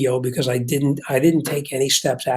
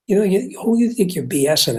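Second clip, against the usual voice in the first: retold heated challenge, pitch jumping higher; lost temper; 6 semitones higher than usual. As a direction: replay the argument with rising heat. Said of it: "I didn't mean to lose my temper".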